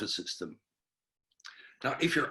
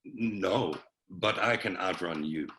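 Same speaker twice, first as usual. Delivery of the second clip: low, unbothered deadpan; calm reply; 6 semitones lower than usual. Retold or imitated. Calm friend answers the screaming one, low and unhurried. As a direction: drop it low and easy, totally unfazed. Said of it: "very calmly he says".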